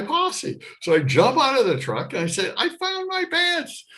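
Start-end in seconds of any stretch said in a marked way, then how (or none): 2.6-3.9 high, slow, gleeful news; pitched-up triumphant report; excited announcement. Retold or imitated. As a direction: proudly show off the find. Announcing to man on horse.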